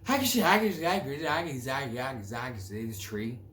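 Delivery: put-on rapid nonsense in a caricatured Irish accent. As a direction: burst into garbled fake Irish, then wind down. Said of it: "or Irish accent".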